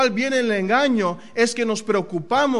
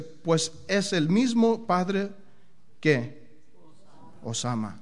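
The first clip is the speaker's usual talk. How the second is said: tender reading; slower than usual. Acted. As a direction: let the words sink in gently. Reading key verse tenderly.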